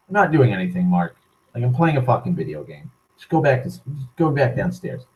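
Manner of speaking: mild, unbothered semi-monotone. Retold or imitated. Gamer dismissing drunk Mark mid-game, semi-monotone. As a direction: brush him off in a near monotone. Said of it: "like, a semi-monotone".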